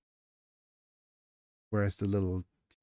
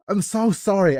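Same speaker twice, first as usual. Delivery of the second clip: giggly apology; 10 semitones higher, 6 dB louder than usual. Real, not acted. Breaking up over misreading.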